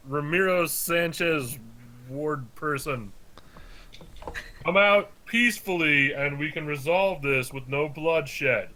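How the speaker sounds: slow, measured proclamation with a little extra stank; lightly voiced compelling barbarian hero; charming barbarian orator. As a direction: slowly call for a peaceful surrender. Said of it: "a little extra stank on your words".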